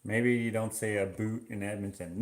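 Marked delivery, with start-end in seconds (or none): 1.0-1.5 "a boot" for about, with a full OO; cartoon Canadian OO in "a boot"; exaggerated Canadian about. Shown as a demonstration. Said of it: "No one says a boot".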